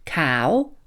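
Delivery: usual speaking voice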